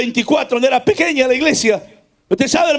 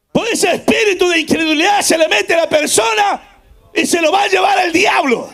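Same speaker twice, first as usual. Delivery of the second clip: full-force preaching; 4 semitones higher than usual. Acted. Preacher affirming God never lost a battle, full-force preaching. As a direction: proclaim it to the congregation.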